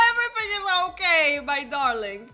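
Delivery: laughing, then settling; calm the wife down; a hint of reassuring husband.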